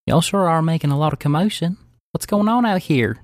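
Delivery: Daisy. Acted. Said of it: "Daisy on the rocks peeks out and says".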